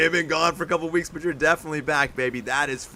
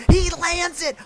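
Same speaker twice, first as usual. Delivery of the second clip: much higher and louder, shouted; thrilled shout; 12 semitones higher, 6 dB louder than usual. Real, not acted. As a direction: hit it harder the second time. Repeats landing call, louder.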